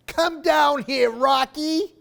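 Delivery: loud, high call to a dog. Acted. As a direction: call her down from across the room. Calling the dog to come.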